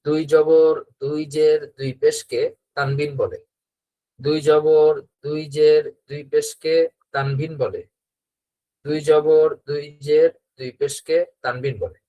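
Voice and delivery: slow call-and-repeat chant, each phrase set apart; teacher chanting a rule for pupils to repeat; rhythmic drill recitation. Shown as a demonstration. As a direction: lead the class through the rule line by line, slowly. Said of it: "সবাই আমরা বলি".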